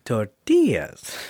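slowed, flat-faced Tortillas; slow deadpan tortillas. Retold or imitated. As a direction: drag out Tortillas dryly, fighting a laugh. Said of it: "And he goes".

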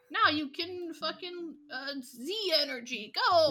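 high, drawn-out hype ending in a loud burst; mock hype. Podcaster mocking a game's new gimmicks, mock hype. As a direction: build to a shouted mock battle cry.

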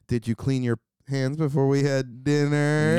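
slow, scolding mom; a nagging mother, drawn out. Acted. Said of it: "there's another one that I like to do is like".

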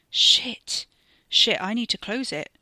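loud, urgent panicked cursing; panicked shout about the portal; urgent alarm. Acted. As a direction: blurt it out in alarm.

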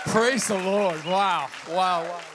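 loud rallying hype; rally speech. Real, not acted. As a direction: pump up the crowd, shouting. Pastor rallies congregation.

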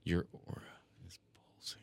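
slow, low gravelly whisper. Shown as a demonstration. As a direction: rasp it out slowly. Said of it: "say that one again slower with more gravel in your voice".

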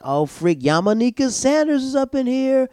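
high, thrilled spotting a celebrity; high gushing fan voice; excited squeal. Retold or imitated. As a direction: squeal the name in delight. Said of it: "And I was like".

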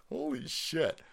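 ordinary talk, nothing marked

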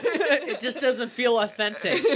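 laughing mock complaint. Real, not acted. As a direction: say it while laughing.

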